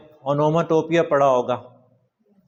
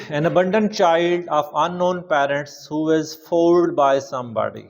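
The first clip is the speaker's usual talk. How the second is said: slow dictation; much slower than usual. Shown as a demonstration. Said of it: "slow dictation".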